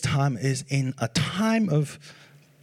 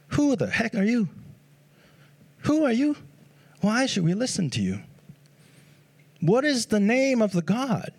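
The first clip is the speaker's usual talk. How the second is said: higher-pitched, mock-incredulous challenge; challenging questions; 5 semitones higher than usual. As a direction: demand credentials, pitch jumping on the questions. Acted challenge from imagined doubting people.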